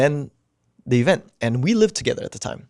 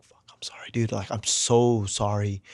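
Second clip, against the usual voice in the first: tearful whisper; 3 semitones lower, 5 dB quieter than usual. Retold or imitated. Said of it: "bro, I started crying".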